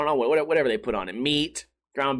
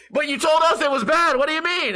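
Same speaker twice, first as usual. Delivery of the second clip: much higher, louder accusing mimicry; mocking accusers; 11 semitones higher, 4 dB louder than usual. Mimicking friends exposing him in front of the cook, shrill. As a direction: parody the snitches' gotcha. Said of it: "They're like, like".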